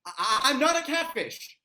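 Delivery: high, loud stammer; nervous denial; stammering fear. Acted. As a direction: blurt it out in panic. Orcs surrender at dagger point.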